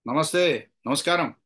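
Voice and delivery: short, offhand greeting; very casual. Shown as a demonstration. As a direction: toss off a casual hello. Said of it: "చాలా క్యాజువల్గా". (చాలా క్యాజువల్గా)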